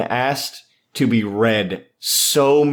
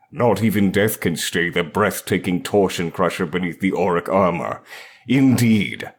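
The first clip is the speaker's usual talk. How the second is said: in full character. Acted. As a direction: read it like a solemn war chronicle. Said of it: "read this out in full character".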